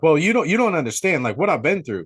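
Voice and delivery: mildly frantic retold protest; light imitation of a hysterical woman, rushing at first; mock hysterics. Nancy protesting to the sheriff, mildly hysterical. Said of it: "she's still in hysterics".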